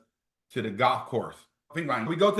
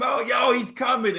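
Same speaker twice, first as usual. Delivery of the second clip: higher, mock shout; a hammed-up hallway yell, higher; retold yell; 10 semitones higher, 4 dB louder than usual. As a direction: call it out down the hall. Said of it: "So he screamed".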